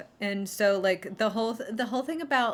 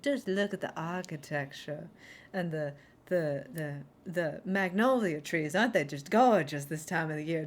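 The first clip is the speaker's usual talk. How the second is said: mock southern belle; 2 semitones lower than usual. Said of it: "talk to you like a southern belle".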